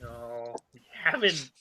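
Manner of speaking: very quiet, low reply; hushed and pointed; soft menace. Acted. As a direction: drop suddenly to a soft, ominous murmur. Menacing introduction, answers softly.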